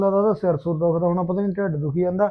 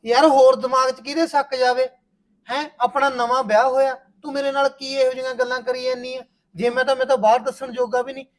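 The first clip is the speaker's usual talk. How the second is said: higher, louder aggrieved protest; loud exasperated quarrel with new wife; heated complaint; 5 semitones higher, 4 dB louder than usual. Acted. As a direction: argue hurt and jealous. Husband's jealous complaint.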